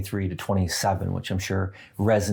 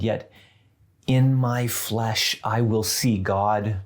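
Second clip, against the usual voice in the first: scripture reading. Acted. Reads Job's confession of faith.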